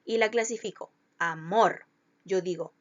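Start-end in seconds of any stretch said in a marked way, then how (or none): 1.2-1.9 "amor" with the weight on "mor"; stress on last syllable. Shown as a demonstration. Teacher showing where the voice falls, final stress on "amor". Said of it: "En dónde cargo la intensidad de la voz".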